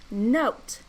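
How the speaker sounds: put-on lightly bright coaching voice for kids; overbright kids party host. Shown as a demonstration. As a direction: coax the class gently through blending. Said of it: "back to my coaching voice".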